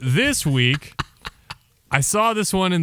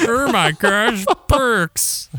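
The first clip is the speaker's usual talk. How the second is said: higher, louder mock kid voice; imitating the Burks meme kid; 8 semitones higher, 3 dB louder, much slower than usual. Co-host imitating the meme girl, higher and louder. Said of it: "the Burks meme where it was".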